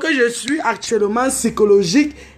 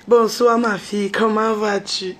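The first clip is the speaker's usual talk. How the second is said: soft sweet talker. Retold or imitated. Woman mimics the man greeting her, in a lightly soft voice. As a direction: coax her gently like a smooth suitor. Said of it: "Tu fais la voix douce avec moi".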